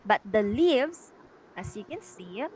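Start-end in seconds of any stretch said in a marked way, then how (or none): 0.2-1.1 slow "the leaves" with a loud beat on "leaves"; weight thrown onto "leaves"; stressed syllable. Shown as a demonstration. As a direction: punch and stretch "leaves" in "the leaves". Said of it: "it is the stressed syllable".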